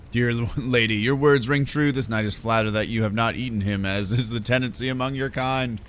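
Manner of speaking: hint of a flattered, stiff knight; a mock-gallant knight's reply; courtly knight. Knight answers in courtly speech.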